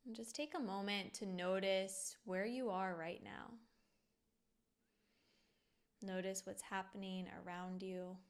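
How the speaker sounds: soft, unhurried meditation guide with long pauses; guided meditation. Acted. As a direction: gently guide the listener to settle and notice.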